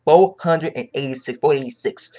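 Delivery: hyped announcement of the chapter; hyped repeat. Real, not acted. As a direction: shout the number out to the viewers.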